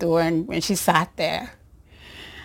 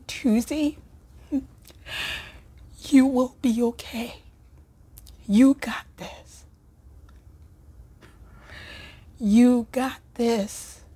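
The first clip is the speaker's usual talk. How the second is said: tender reassurance; 4 semitones higher than usual. Retold or imitated. Friend comforting her, retold.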